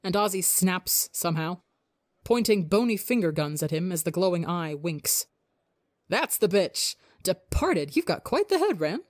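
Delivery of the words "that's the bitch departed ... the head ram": gleeful. Acted. Ozzy gleeful after snapping.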